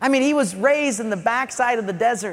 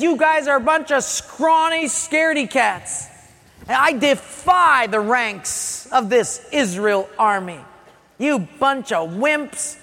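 lightly acted jeer at the enemy; mock giant's taunt; 2 semitones higher than usual. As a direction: taunt them as a bragging giant.

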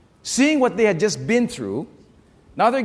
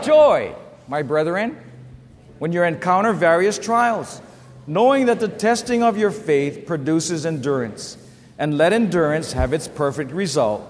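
scripture reading. Shown as a demonstration. Pastor reading James aloud with the congregation. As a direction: read the verse out strongly. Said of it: "Read with me what James one says".

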